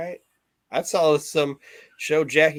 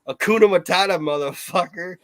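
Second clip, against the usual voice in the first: mock trash guy; 4 semitones higher, 4 dB louder than usual. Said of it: "the one trash guy goes".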